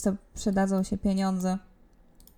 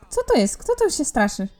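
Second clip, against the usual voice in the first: surprised; 5 semitones higher than usual. Real, not acted. Surprised at a strange sight.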